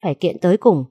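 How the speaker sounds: indignant, rising outburst; angry outburst. Acted. Wife rages to her husband about the ex-wife, indignant. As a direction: spit out the curse in indignation. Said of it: "không kiềm chế được mà phải thốt lên".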